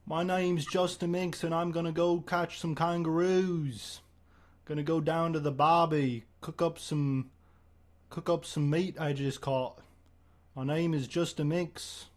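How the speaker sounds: slow, hammed-up Aussie bloke, lightly done; Australian accent. Justin Minks introduces himself to the listeners, in a slow mock Australian accent. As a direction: lay on an Aussie ocker accent at an easy pace.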